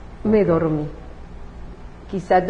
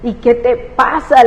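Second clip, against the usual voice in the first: crying shout at God; 2 semitones higher, 4 dB louder than usual. Retold or imitated. Mother shouting to God while crying, desperate. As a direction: demand answers from heaven through sobs. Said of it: "gritaba a Dios y a todo esto yo lloraba".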